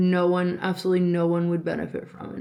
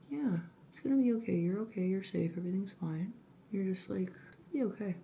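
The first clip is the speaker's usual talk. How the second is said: hushed self-soothing; 4 dB quieter, faster than usual. Real, not acted. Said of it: "calms herself down again".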